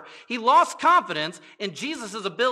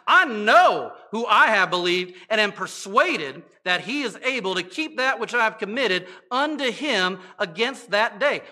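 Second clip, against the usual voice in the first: with attitude; 5 dB louder than usual. Shown as a demonstration. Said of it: "with the attitude and all".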